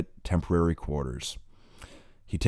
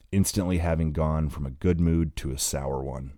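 ordinary delivery

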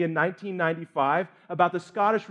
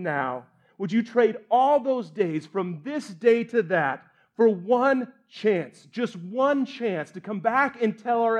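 stirring battle speech. Acted. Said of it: "force that Wallace did".

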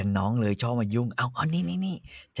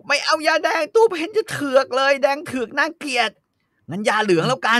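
whiny refusal; 12 semitones higher, 3 dB louder than usual. Acted. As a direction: whine like a spoiled lady. Pen refuses red medicine.

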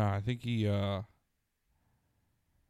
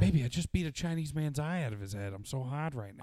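Mark Wahlberg impression. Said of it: "Mark Wahlberg's easy".

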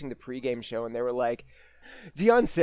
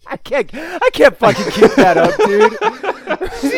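loud, high burst out of character; cracking up; 14 semitones higher, 13 dB louder than usual. Real, not acted. Co-host drops the radio act to the host, cracking up. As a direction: break into real laughter while talking.

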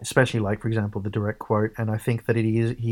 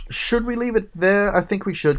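lifted wrap-up; 10 semitones higher, 3 dB louder than usual. Real, not acted. Wrapping up the segment.

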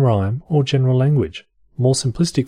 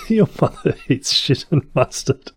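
higher mock posh English accent with giggles; 6 semitones higher than usual. Reading the comeback insult in mock posh English accent. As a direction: keep the posh English act going. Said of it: "in a posh accent".

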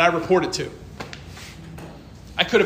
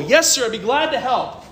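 respectful; 6 semitones higher than usual. Retold or imitated. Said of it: "I was respectful".

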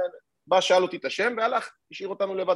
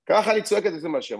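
retold shouting; 3 semitones higher, 3 dB louder than usual. Policewoman yells back at officer's wife, mimicked shouting. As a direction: imitate a policewoman yelling back defiantly. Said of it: "והיא צועקת".

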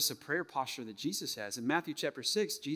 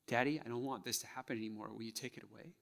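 soft plea; 7 dB quieter, faster than usual. Acted. Acts out childlike prayer to Father.

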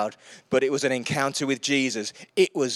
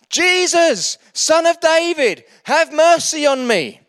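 loud, high cry for mercy; shouting; 12 semitones higher, 11 dB louder, slower than usual. A narrator's reading. Blind beggar shouting to Jesus from roadside, loud high cry. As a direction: call out to him across the crowd. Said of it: "he began to shout".

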